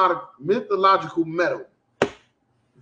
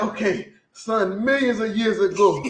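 put-on African accent. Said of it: "Putting on the African voice".

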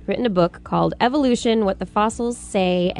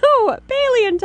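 mock correcting; 4 dB louder, faster than usual. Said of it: "I said".

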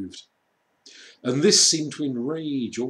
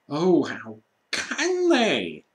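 slow, higher pained plea; a touch of tears; Lucy weeping as she watches; tearful Lucy; 6 semitones higher, 5 dB louder, slower than usual. A narrator's reading. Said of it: "tears streaming down her cheeks".

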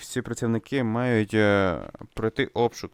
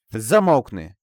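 sharp shout; 6 dB louder, slower than usual. Acted. Player voicing a character who orders silence, shouting. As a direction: bark it like an order to shut up. Reading game character's angry line.

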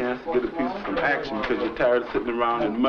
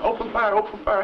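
yelling; 8 semitones higher than usual. Retold or imitated. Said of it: "everybody yelling".

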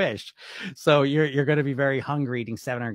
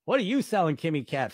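a mock-suspicious question; 2 semitones higher than usual. Real, not acted. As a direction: throw the question back at her, teasing.

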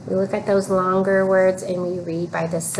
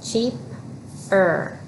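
Cheap-er said in two parts, a small gap after Cheap; split into syllables. Shown as a demonstration. Teacher models the word broken in syllables. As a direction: say Cheap, pause, then er. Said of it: "We're gonna read by the syllables".

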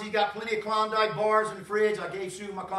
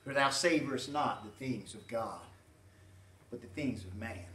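stern rebuke; 11 semitones lower, 9 dB quieter than usual. Retold or imitated. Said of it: "Jesus said".

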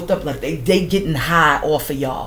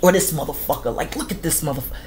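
mock resentful grumble. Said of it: "grunts through their teeth".

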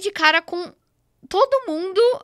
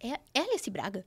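disbelieving question; 4 semitones lower, 8 dB quieter than usual. Retold or imitated. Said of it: "Aí eu".

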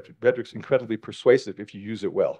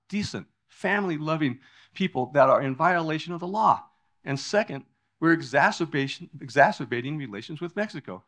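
lightly attempted accent, higher than usual; George Bush; 5 semitones higher than usual. Speaker quoting a debate answer on immigration, half-hearted accent attempt. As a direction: try a politician's accent without quite landing it. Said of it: "I can't do his accent".

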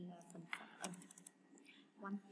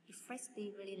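"effectively" with FEC stressed; stress on second syllable. Shown as a demonstration. Teacher going through answers, second syllable of "effectively" stressed. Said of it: "là nhấn âm hai luôn".

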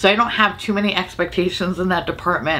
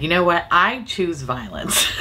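sassy. Retold or imitated. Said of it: "Urban Decay woke up and said".

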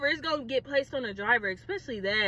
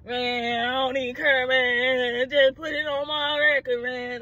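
put-on careless cool; mock nonchalance; 2 semitones lower, slower than usual. Pretending to shrug off the arrest, mock nonchalant. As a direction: pretend you couldn't care less. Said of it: "Let me not act like I was just like".

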